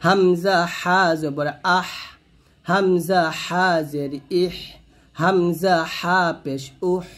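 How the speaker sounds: slow drawn-out spelling, "আহ, ইহ, উহ" ending on breath; slow recited drill with audible air closing "আহ, ইহ, উহ"; breathy final হ. Shown as a demonstration. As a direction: stretch each letter name, then breathe out the হ of "আহ, ইহ, উহ". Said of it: "তো এখানে বাতাস হবে".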